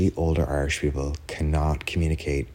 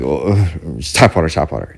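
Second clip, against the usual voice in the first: mock flustered diner waving the server off; timid, awkward; 6 dB louder than usual. Irish diners waving the server away, flustered and awkward. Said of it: "timid, afraid, like, deer".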